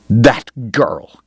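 whispered dismissive scoff. Acted. Kate, waving off Doc's cousin, dismissive whisper. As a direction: brush her off under your breath. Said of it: "dismissive wave".

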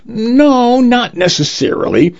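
high, drawn reassurance; softened. A narrator's reading. Lawyer comforting the crying client, softened. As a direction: ease into gentle reassurance, voice lifted. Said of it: "The lawyer softened".

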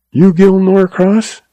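lightly voiced feverish young man; asked weakly. A narrator's reading. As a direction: ask it faintly, hurt. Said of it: "he asked weakly".

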